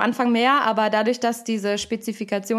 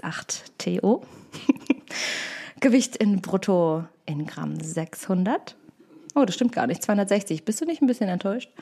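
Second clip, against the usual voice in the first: reading while fighting laughter; barely holding back giggles; giggly reading. Real, not acted. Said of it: "Ihr wolltet es so".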